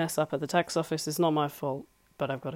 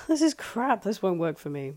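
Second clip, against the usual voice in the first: higher, louder burst, then dropping to normal; dismissive sceptic; 4 semitones higher, 5 dB louder than usual. Acted. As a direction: scoff like a sceptical listener giving up. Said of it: "you listen to this and you think".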